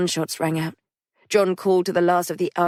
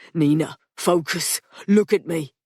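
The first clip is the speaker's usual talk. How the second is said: urgent command. Acted. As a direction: make her look at you. Patrick shakes dazed Nina.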